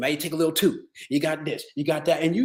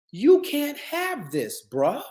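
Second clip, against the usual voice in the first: firm refusal; 7 semitones higher, much slower than usual. Shown as a demonstration. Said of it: "I mean that from the bottom of my heart".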